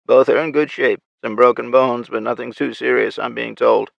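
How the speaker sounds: lightly voiced raspy soldier; crisp military radio report; raspy female soldier. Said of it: "her raspy voice".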